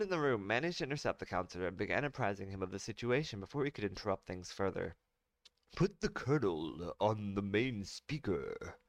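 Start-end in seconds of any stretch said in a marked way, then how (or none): 5.7-8.8 commanding order. Acted. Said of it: "Mombada ordered".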